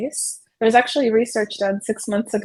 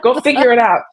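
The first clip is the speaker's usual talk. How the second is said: louder, impatient brush-off; curt dismissal; 3 semitones higher, 6 dB louder than usual. Shown as a demonstration. Adult dismissing a lost child, loud and impatient. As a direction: shoo the kid away. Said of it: "stand over them and go".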